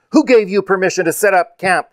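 angry yell. A narrator's reading. Second rider confronts the campers, yelling angrily. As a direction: yell a demand at trespassers. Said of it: "yelled the other".

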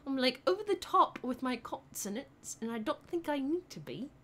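put-on over-enunciated British accent; British accent with overdone consonants. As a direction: try a crisp British accent. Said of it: "Try your British accent for one minute straight".

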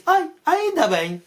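high, drawn-out sigh of relief; relieved mother. Acted. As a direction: act a mother comically glad to be rid of him. Mother relieved her child is gone.

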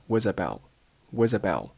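"was about" run together, final t unreleased; linked was about. Shown as a demonstration. Teacher shows linking, "was about" as one word. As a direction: say "was about" as wuz-uh-bow. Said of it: "was和about又连读成了".

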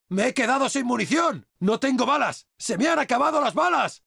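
high, urgent callout to the squad; alarmed battle call. Acted. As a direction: call out in alarm over the gunfire. Game barks, out of ammo in battle.

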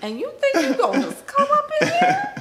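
dad voice rising to a high, loud yell; angry dad. Retold or imitated. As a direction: play the furious father catching his late daughter. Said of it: "He was like".

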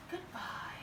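airy squeal of praise; high breathy praise. Real, not acted. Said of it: "จะมีแม่เสียงสูง".

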